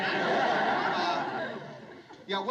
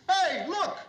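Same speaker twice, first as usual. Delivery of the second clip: lightly voiced drunk, pitched up; a hint of a tipsy man; 8 semitones higher than usual. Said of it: "this drunk walks up".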